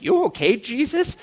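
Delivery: high, tentative questioning voice; concerned disciples. Acted. Disciples checking on an irritated Jesus, high and tentative. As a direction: lift the pitch into a cautious check-in. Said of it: "I could just imagine the disciples like".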